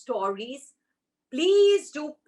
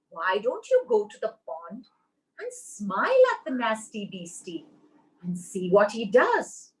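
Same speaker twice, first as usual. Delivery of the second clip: wise mama squirrel. Acted. Mama squirrel gives gentle advice.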